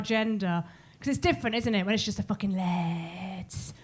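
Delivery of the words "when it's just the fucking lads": slow, swaggering bloke bravado; macho lad voice. Retold or imitated. Comic mocks the lads on a night out, slow and swaggering. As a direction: puff it up like a lad boasting.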